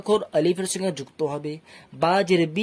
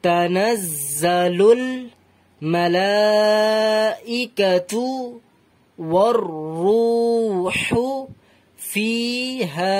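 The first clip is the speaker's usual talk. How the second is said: slow Quran recitation with long held vowels; measured, drawn-out teaching recitation; 3 semitones higher, much slower than usual. Shown as a demonstration. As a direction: recite phrase by phrase, stretching the endings. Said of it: "আরো ধীরে ধীরে পড়তে পারেন".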